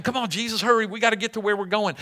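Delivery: quick, impatient disciples; hurried urging. Acted. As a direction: rush him along without raising the volume. Disciples hurry Jesus along.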